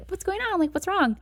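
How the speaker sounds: put-on high-pitched, oblivious cheery girlfriend; lightly acted carefree concern, high voice; breezy good mood. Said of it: "in a great fucking mood".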